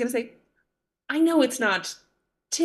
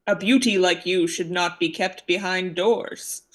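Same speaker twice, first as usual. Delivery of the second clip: lightly voiced gallant character, lower pitch; a hint of a low character voice; Carl; 4 semitones lower than usual. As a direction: put on a slightly deeper voice for a suitor. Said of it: "Carl goes".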